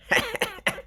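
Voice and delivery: high, quick little laugh; imitated owner's chuckle. Amused cat owner before explaining, high soft chuckle. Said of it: "got a big smile on her face".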